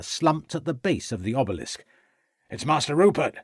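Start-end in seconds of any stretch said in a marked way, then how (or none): 2.5-3.4 exclaimed. A narrator's reading. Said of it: "exclaimed Rivers".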